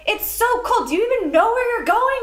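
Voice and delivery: mock the cold, fed-up mom; frustrated mom. Frustrated mom complaining to her lost daughter about the cold. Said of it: "She's like".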